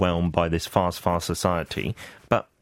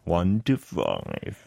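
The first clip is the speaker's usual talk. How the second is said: slow; 3 semitones lower, much slower than usual. Shown as a demonstration. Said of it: "but I spoke slowly".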